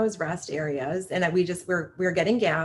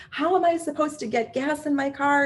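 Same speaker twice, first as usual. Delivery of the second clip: higher, whiny indignant demand; mock angry woman; 7 semitones higher than usual. Woman blocked at gas pump to mother, mock indignant whine. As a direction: play her exasperated complaint.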